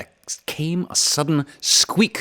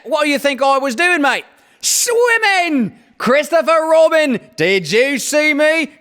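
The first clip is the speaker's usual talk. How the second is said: very high, loud squeaky little joey with Australian twang; squeaky Roo; 5 dB louder than usual. A narrator's reading. Roo squeaks proudly to everyone from the pool, very high. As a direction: squeak it out like an excited little kangaroo.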